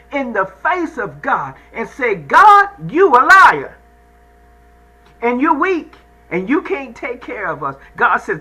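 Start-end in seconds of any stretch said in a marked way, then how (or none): 2.1-7.8 loud, high mock accusation of God; a hammed-up angry crowd yelling; indignant accusing shout. People accusing God, voiced loudly.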